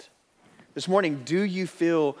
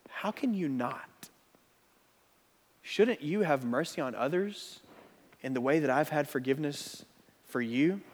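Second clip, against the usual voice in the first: gentle rebuke; 2 semitones lower, 6 dB quieter than usual. Acted. God asking the unmerciful servant, gentle rebuke. God's voice, softly.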